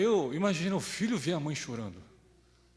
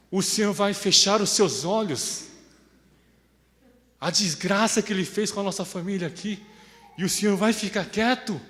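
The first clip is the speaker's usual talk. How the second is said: preaching at full force; 3 semitones higher, 6 dB louder than usual. Acted. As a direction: demand an answer from God. Preacher cries out to God.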